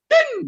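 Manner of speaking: high, loud mock car-horn beep. Preacher honks at the stalled biker, high loud beep. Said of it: "Tak bel, saudara".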